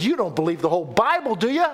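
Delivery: mildly needling, quick question; lightly bait her with a rising tag; teasing. Acted. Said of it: "trying to mess with her".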